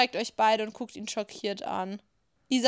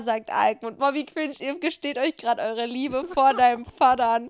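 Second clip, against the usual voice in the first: ordinary talk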